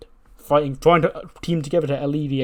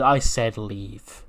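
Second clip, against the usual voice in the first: stern order; much slower than usual. Retold or imitated. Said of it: "And then she goes".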